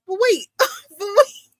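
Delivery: high, whimpering retold plea; half-laugh, half-cry, pitched right up; mock tearful protest. Fan retelling her reaction to the pregnancy, mock tearful.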